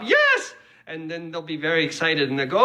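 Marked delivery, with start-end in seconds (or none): 0.0-0.5 high, loud comic yes; mock-triumphant one-word cry; emphatic yell. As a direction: shout it way up high. Acts out his excited answer.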